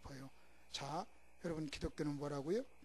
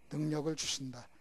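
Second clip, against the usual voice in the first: firm answer; 3 semitones lower, 4 dB louder than usual. Shown as a demonstration. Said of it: "선택하면 뭘 주신다?".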